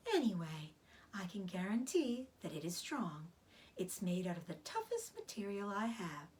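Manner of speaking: a tired spider, barely whispering; weak spider. Acted. Charlotte's weak voice.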